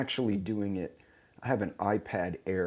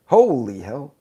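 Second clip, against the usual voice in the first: loud, higher holy hell; reacting loudly to a new filter on his face; surprised exclamation; 4 semitones higher, 12 dB louder, slower than usual. Real, not acted. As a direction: let it burst out in amused shock. Sees another wild filter.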